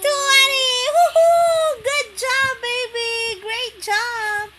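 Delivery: loud, high cheering praise. Real, not acted. Mom cheering her toddler for counting to twenty. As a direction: celebrate her like she won.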